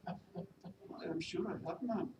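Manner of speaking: reply meekly with a Welsh lilt; attempted Welsh accent. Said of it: "my attempt at a Welsh accent".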